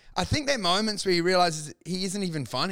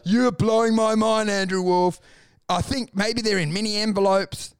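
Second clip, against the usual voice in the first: mock mind-blown Rogan; 4 semitones higher than usual. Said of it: "And he'd be like".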